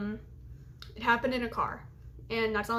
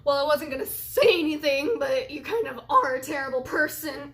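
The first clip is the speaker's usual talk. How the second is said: loud sneering comeback; cutting retort; 2 semitones higher, 5 dB louder than usual. Retold or imitated. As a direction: say it to wound her. Retorting insult to her.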